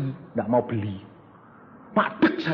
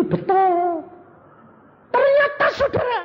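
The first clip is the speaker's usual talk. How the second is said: higher, louder exclamation; excited reveal; 5 dB louder than usual. Real, not acted. Preacher exclaims to the congregation, higher. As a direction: build the surprise for the crowd.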